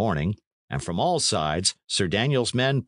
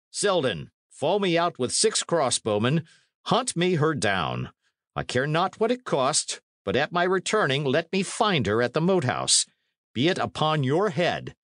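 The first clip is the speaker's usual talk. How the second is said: higher-pitched, insistent orders; commanding knight; 8 semitones higher than usual. Acted. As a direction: send a soldier off on a manhunt. Sir Daniel orders a pursuit.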